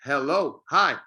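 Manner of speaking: "Hello" and "hi" with a clear initial H; sounded H. Shown as a demonstration. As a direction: pronounce the H fully in "Hello, hi". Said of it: "The H sound sounds like".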